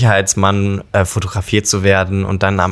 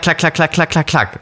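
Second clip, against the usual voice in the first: camera click imitation; 5 semitones higher than usual. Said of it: "dann mache ich halt klack".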